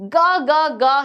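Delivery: bird's hungry cry, mildly voiced; a touch of a begging chick's cry. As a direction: call out like a hungry young seagull. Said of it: "he cried".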